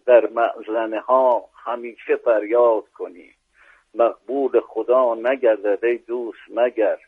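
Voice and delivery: measured, rhythmic verse reading; poem recitation. Acted. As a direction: recite the quatrain with weight. Recites a rubai.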